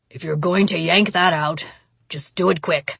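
tight voice. Acted. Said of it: "came a tight voice".

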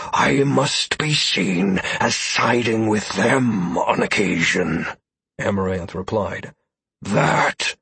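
slow, measured cat voice; wise cat voice. Acted. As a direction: speak like a calm, aloof cat. Amaranth the cat speaks.

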